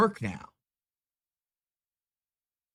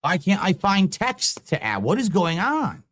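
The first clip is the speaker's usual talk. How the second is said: exasperated; 3 semitones higher, slower than usual. Real, not acted. Streamer can't find menu item.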